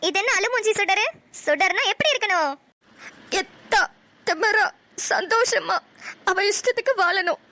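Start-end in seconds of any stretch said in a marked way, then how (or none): 3.4-7.4 teary, slow, words pushed out through tears; said while crying. Acted. Daughter repeats her motto to mother while crying. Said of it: "அதை ஏன் அழுதுட்டே சொல்ற?".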